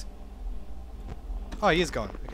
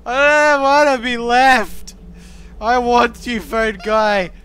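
louder, hammed-up begging; mock pleading; 2 semitones higher, 5 dB louder than usual. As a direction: plead half-jokingly not to be left. Begs phone guy not to go.

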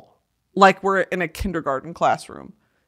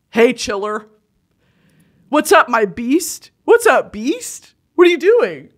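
hype beast greeting; 2 semitones higher, 4 dB louder than usual. Retold or imitated. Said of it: "this guy was like".

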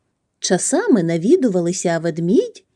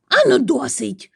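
higher-pitched, growled command; growling; 6 semitones higher than usual. A narrator's reading. Bear breaks up the choir, growling. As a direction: growl it out to stop the noise. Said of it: "загарчав він".

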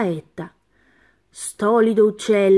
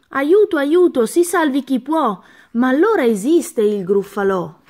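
panicked cry; 4 semitones higher, 4 dB louder than usual. Acted. Mouse meets the monster.

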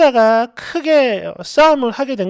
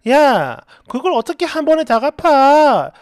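mildly indignant challenge; acted protest. Borrower argues she cannot repay at once, protesting. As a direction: argue back, taken aback and cross. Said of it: "이렇게 좀 따졌더니".

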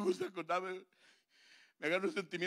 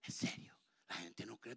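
whispered in confidence; 6 semitones lower, 10 dB quieter than usual. Acted. Comedian assuring the crowd, whispered. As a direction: hush it like a secret.

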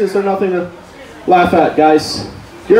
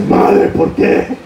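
whispered; much slower than usual. Retold or imitated. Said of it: "I was like".

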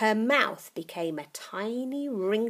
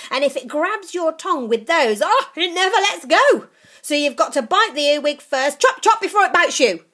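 put-on higher, louder, fast old witch; excited old witch; 7 semitones higher, 12 dB louder than usual. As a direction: build up gleeful and greedy. Grandma relishing.

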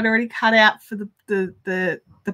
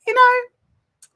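quoting mum a bit higher; lightly voiced mum, breezy; mum's voice; 5 semitones higher than usual. Mum on the phone about the podcast, lightly voiced. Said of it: "And she goes".

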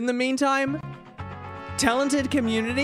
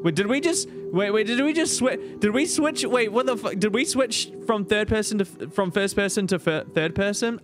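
confused; 5 semitones higher than usual. Real, not acted. Streamer confused by the text.

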